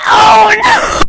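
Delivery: high, loud hammed-up gasp; mock dismay. Joking that Jake Paul was erased too. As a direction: overplay the horror as a joke.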